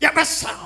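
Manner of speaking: very high, shrill, cutting irritated tone, acted out. Imitating the pastor's wife answering the phone, mock-irritated sharp voice. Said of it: "사모님 목소리가 앙칼진 목소리".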